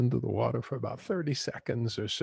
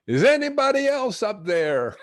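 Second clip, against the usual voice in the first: much higher and louder panicked call; frantic, desperate plea; 12 semitones higher, 8 dB louder than usual. Retold or imitated. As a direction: shout up hoping for someone else. Man asks for another option.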